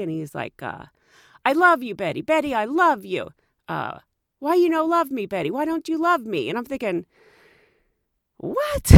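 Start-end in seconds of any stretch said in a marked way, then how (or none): 1.5-6.5 mock lovesick driver, broken English; lightly voiced pushy taxi driver; imitating taxi driver. Voicing the taxi driver's pleas. 8.4-8.9 sudden high disbelieving what; stunned, much higher and louder; shocked what. Retold or imitated. Her shocked reaction.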